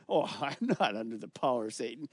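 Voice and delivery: a mild mock scoff with a laugh. Preacher imitates an unbeliever lightly laughing off the idea. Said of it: "you say".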